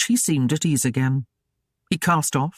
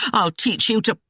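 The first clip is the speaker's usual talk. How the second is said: threatening; 6 semitones higher than usual. A narrator's reading. Gwyneth threatening the child.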